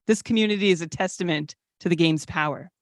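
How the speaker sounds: measured, grandiose prologue reading; portentous opening monologue; solemn scripted intro. Acted. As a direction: read it like an epic season prologue, pausing for weight. Reads a written show intro.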